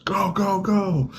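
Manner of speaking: high, soft hurried shooing; mock cop waving. Imitating cop letting Chipotle driver go, high mock shoo. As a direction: wave them on like a flustered cop.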